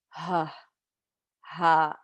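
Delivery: "ha" breathed out like relief; sigh of relief ha. Shown as a demonstration. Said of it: "a sigh of relief".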